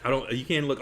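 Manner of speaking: ordinary delivery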